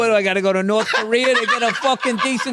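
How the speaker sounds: loud entitled celebrity rant; mock indignant. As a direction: demand a table, outraged.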